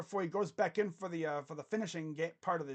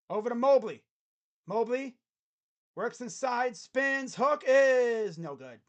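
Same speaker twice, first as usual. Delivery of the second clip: raised voice, punching the key plays; live basketball play-by-play; 3 semitones higher, 5 dB louder than usual. Real, not acted. Commentator calling Mitchell and Mobley's plays, play-by-play. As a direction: call the action as it happens.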